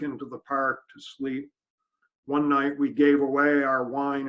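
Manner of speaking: measured poem reading, pausing at line breaks; poetry reading. Acted. Reads own poem aloud.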